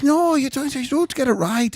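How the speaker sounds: put-on high-pitched caricatured Asian accent; mock Asian accent. Unsatisfied customer correcting pianist, high mock Asian accent. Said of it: "Did he do a better accent?".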